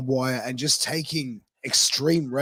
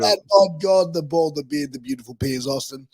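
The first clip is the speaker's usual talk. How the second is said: ring announcer intro; 2 semitones higher, 6 dB louder than usual. Shown as a demonstration. Host asks the guest to do his own ring intro, announcer voice. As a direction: announce him like he's walking to the ring. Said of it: "Say it, say it".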